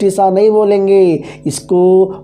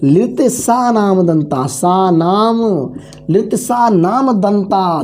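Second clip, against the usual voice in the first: लित सा नाम दंता spelled out slowly, word by word; slow dictation pace for students to copy; slow recitation; slower than usual. Shown as a demonstration. Teacher slowly dictates the formula for students to note, slowly. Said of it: "ध्यान दीजिएगा".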